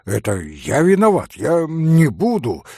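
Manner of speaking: frightened apology. Acted. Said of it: "Митя страшно испугался".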